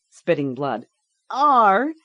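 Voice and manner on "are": persisting. A narrator's reading. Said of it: "she persisted".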